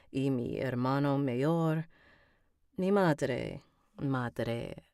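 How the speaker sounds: careful Spanish practice reading; Spanish accent practice. Shown as a demonstration. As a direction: sound out Spanish to set the accent. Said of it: "read a Spanish sentence to get my tongue".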